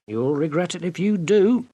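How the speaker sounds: warning maid. Acted. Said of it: "said Euphemia".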